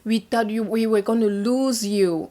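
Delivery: mildly excited retold greeting. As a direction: imitate an excited, relieved husband, pitched a bit up. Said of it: "he seems so excited".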